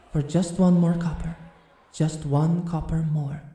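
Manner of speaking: measured, rhythmic poem recital; poem reading. Acted. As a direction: read it like a shy poet sharing her verse.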